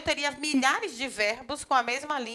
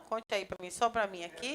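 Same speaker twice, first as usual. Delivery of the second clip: confidencial; 4 semitones lower, 8 dB quieter than usual. Acted. Pai sonda o filho em segredo.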